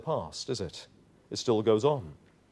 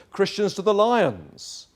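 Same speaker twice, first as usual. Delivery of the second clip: a hint of a crowd's cry, higher and slow; mock crowd cry; 6 semitones higher, slower than usual. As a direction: call it out like a Roman mob. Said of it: "the cry would go up".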